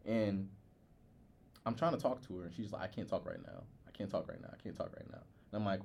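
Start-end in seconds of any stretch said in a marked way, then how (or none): 2.8-5.2 quiet, repeated, fading to a whisper; soft repeated refusal that sinks into a whisper; hushed brush-off. Retold or imitated. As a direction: mimic the friend hurrying you away under her breath. Friend brushing her off at work.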